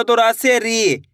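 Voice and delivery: very slow, with री stretched long; slow demo. Shown as a demonstration. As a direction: sound it out slowly for the class. Teacher demonstrating syllable change. (धीरे, री को लंबा खींचकर)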